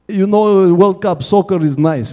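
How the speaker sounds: lightly put-on Russian accent; chatty mock Russian accent; Russian-accented mechanic. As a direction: imitate a Russian mechanic making small talk. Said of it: "He's got a big Russian voice".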